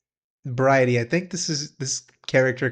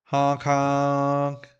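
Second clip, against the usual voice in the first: silly clown. Acted. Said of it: "Happy rag noises".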